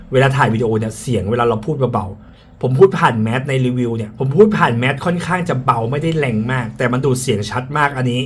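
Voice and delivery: muffled, speaking through a face mask. Real, not acted.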